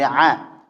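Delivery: "a" as a thin open ain. Shown as a demonstration. Teacher shows the required sound, thin "a". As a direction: keep the throat "a" light, unrounded. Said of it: "Harus dibaca dengan tipis".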